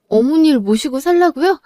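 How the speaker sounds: astonished daughter-in-law checking 살라고요; surprised disbelief. Acted. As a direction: ask back as if unsure she heard right, 살라고요 stretched and rising. Wife stunned by permission.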